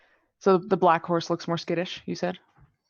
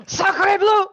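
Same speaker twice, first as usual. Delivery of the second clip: high, loud French exclamation; french chef; 8 dB louder than usual. Acted. Player voices French character.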